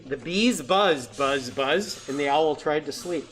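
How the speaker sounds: stretched, emphatic picture-book opening, then rhythmic refrain; read-aloud storytelling. A narrator's reading. Reading an owl picture book to children, lively storytelling. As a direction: read it out big for small listeners.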